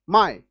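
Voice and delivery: माई said in one go; माई in a single short beat; single syllable. Shown as a demonstration. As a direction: let माई out as one sound. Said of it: "एक ही बार में निकल गया".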